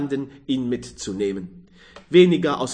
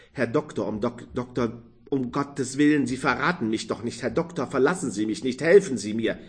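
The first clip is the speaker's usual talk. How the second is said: a hint of terrified pleading; fearful pleading; faster than usual. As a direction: beg in panic, hushed. Frightened man begs doctor.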